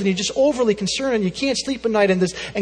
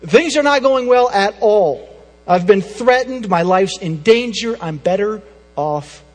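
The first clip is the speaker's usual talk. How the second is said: desperate Elijah; 2 semitones higher, 6 dB louder than usual. Acted. Elijah voiced, desperate complaint.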